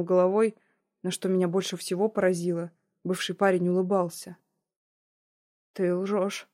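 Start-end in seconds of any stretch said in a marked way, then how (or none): 5.7-6.5 a hint of a cracking voice; understated shaky disbelief; voice breaking. Heroine accuses her ex of lying, lightly breaking voice. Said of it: "Голос мой не слушался, срывался".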